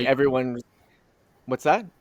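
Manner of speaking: choppy, dropping audio; radio breaking up. Real, not acted. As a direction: voice cutting out on a bad line. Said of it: "You're cutting out".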